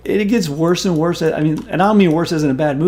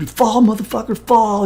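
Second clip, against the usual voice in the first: higher, louder mock villain snarl; Megatron shooting; 7 semitones higher, 4 dB louder than usual. Retelling the villain gunning down the hero, higher and louder. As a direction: snarl it like the villain opening fire. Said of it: "just starts".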